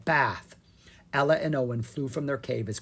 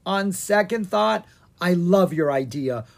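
sheepish; 5 semitones higher, 5 dB louder than usual. Acted. Slimed Owen changes his mind.

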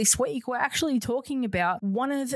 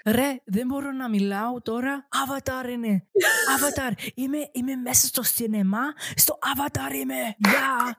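excited Greek man; 4 semitones higher than usual. Retold or imitated. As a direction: imitate an excited moviegoer on the phone in Greek. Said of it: "can you say it in Greek?".

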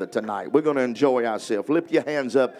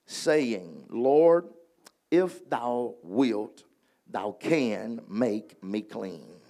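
slow solemn scripture reading; much slower than usual. Acted. Preacher reading the leper's plea to the congregation, slow and solemn. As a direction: read the verse slowly and reverently.

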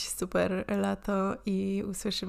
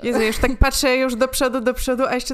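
excited; 4 semitones higher, 7 dB louder, faster than usual. Real, not acted. Excited outburst about the campaign.

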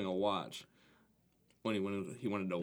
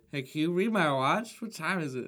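higher, louder pick-up line; guy chatting someone up; 6 semitones higher, 5 dB louder than usual. Acted. Joker to a random chick at the bar, put-on pick-up. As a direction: act out a bar pick-up, laughing at the end. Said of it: "go to a random chick at the bar and goes".

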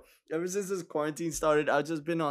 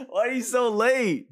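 put-on impatient girl; 9 semitones higher, 4 dB louder than usual.

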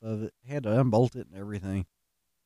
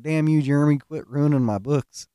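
a hammed-up exasperated yell at Jeremy; mock angry outburst; 2 semitones higher, 5 dB louder than usual. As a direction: play the fed-up coworker scolding, louder. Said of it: "she's like".

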